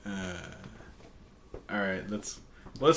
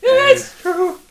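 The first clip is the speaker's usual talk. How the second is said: very high, slow synthetic voice; robotic device voice; 7 dB louder, much slower than usual. Pretend. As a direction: play it like a squeaky text-to-speech. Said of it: "and it goes".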